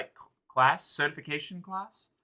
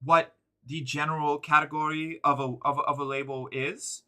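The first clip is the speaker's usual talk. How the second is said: uwu voice. Real, not acted. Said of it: "this fucking speech in the uwu voice".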